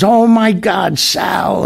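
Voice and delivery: high-pitched imitated "oh my God" surprise; retold amazement. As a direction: act out a startled recognition, pitched well up. Retold startled recognition of an acquaintance.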